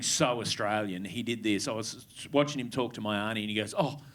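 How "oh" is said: put-on slow, affected European-travel accent; mock a fake continental accent after a gap year; short-trip posh accent. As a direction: cousin showing off his Paris accent to the auntie. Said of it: "Love just short trip bullshit accent".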